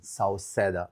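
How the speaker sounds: Sauseda said in a Ukrainian accent. Shown as a demonstration. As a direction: say the name the Ukrainian way. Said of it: "I'm gonna say with my Ukrainian accent".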